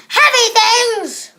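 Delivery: slow, loud, booming reveal; slow epic boom; dramatic announcer. Acted. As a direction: announce it like a movie trailer. Dramatic reveal of contraption power.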